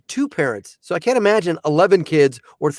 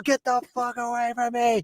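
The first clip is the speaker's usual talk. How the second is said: muttered brush-off; 6 semitones higher, 7 dB quieter than usual. Retold or imitated. Dad snapping back at the lady.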